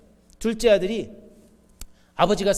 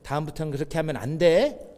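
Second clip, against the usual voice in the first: gentle admonishing; 5 semitones lower than usual. Retold or imitated. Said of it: "그 아이를 꼭 안아주고".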